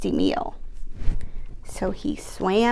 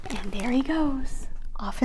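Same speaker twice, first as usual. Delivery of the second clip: whisper; 6 dB quieter than usual. Real, not acted.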